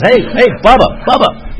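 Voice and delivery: high-pitched calling, imitated; Wes. South Georgia friend chasing the runner, high imitated calling. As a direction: call out in bursts as a Southern pursuer. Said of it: "Wes goes".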